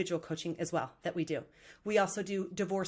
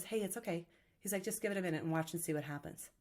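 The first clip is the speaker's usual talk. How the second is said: calm reassurance; 3 semitones lower, 7 dB quieter than usual. Retold or imitated. Calm fisherman reassures worried friend.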